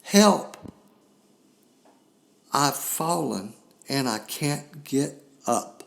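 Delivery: mock TV-ad cry for help, the first word yelled high; cheesy commercial plea. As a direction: ham it up like a bad commercial actor. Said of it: "the bad acting in the commercial".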